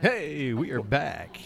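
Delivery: very slow, drawn-out on-air announcer voice. Welcoming listeners back after a break: DJ radio voice. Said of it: "that got very D J voice there".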